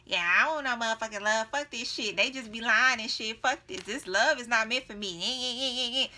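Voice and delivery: mock whiny grumbling, lightly done. Ancestors mocking you for giving up on love, lightly mocking. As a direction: mimic someone swearing off love. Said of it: "your ancestors are, like, mocking you".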